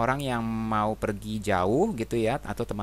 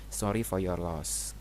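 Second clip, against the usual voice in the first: gentle condolence; 2 semitones lower, slower than usual. Shown as a demonstration. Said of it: "misalnya di rumah duka ya".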